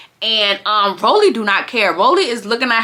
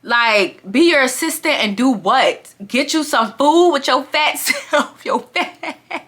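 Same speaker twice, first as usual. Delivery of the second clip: laughing retort; 3 semitones higher than usual. Retold or imitated. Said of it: "She said".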